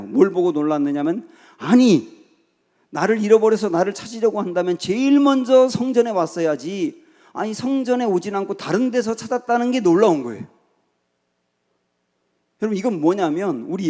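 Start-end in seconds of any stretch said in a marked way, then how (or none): 1.6-10.5 higher-pitched, mildly incredulous protest; acted astonishment. Young Jesus to his searching parents, acted surprise. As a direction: voice a boy baffled at his parents. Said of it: "예수님은 또 놀라요".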